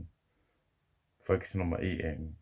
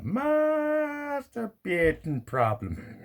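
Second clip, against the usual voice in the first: high, slow, put-on gossip voice; a hammed-up shocked neighbour, drawn out; mock neighbour voice; 3 dB louder, much slower than usual. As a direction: camp it up like a nosy neighbour, much higher and slow.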